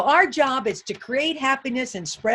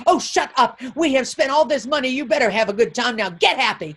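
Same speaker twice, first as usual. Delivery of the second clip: scolding mother; 4 dB louder than usual. Retold or imitated. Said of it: "And the mother said".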